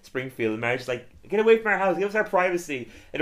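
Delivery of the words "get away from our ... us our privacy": Marge yelling, higher and louder; mock yell. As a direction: shoo the tourists off with a hammed-up yell. Marge yelling at tour bus.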